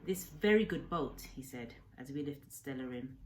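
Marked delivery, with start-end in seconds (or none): 0.0-1.2 lightly voiced old fisherman, eager and kind; old Japanese man, broken English. Old man cheerfully explaining fishing to the boy, lightly accented. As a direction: speak as a proud old man telling the boy his plans. Kensuke's voice.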